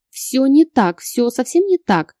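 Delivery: acted whimper on the edge of sobbing. A narrator's reading. Heroine denies it to Bogdan, whimpering. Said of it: "разрыдавшись, проскулила я".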